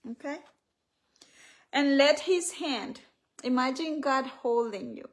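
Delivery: measured devotional reading with long pauses; guided meditation reading. Acted. Author guiding listeners to imagine God's hand, measured and devotional. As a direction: guide them phrase by phrase. Reads guided prayer from book.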